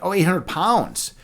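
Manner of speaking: "oh, now I get it" delivery; sudden realization. Real, not acted. Streamer finally understands a viewer's chat message, sudden realization.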